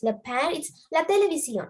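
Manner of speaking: "le père" and "la télévision" said the French way; teacher's French demo of "le père" and "la télévision"; French pronunciation. Shown as a demonstration. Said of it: "No change in the pronunciation".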